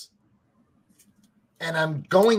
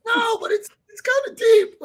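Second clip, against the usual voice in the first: retold reply; 6 dB louder than usual. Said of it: "I'm like".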